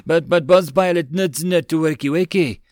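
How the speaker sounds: excitable goblin chatter; goblin nagging. A narrator's reading. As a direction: pester the boss like a goblin sidekick. Goblin nags dreaming pilot.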